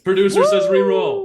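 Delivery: very high, loud announcement; excited high-pitched yell; calling out. Real, not acted. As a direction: shout the ruling over everyone. Producer overrules the failed roll.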